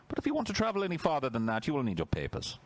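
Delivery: high, prim decree voice; mock official voice. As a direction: read it like a smug bureaucrat.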